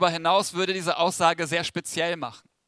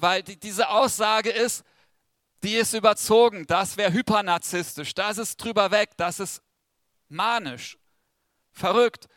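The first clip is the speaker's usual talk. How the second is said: aufgebracht; 3 semitones higher than usual. Acted. Empörte Ablehnung der Aussage.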